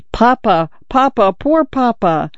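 high-pitched mild wail; crying, narrated. A narrator's reading. Son at his dying father's bedside, understated crying. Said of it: "no more crying".

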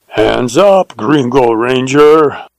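slow, loud, drawn-out holdup order; bandit's command. Acted. Bandit halts the ranger at gunpoint, loud slow command. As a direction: bark it down the rifle line, slow and heavy.

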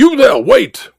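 calling out. Acted. Calling after the cab.

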